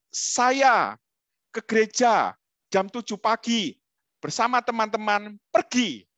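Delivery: slow demo with "pergi" held back to the end; walk through it slowly, verb last; Japanese-style sentence. Shown as a demonstration. Showing how a Japanese speaker orders the sentence, slow and deliberate. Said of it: "Kalau Jepang katakan".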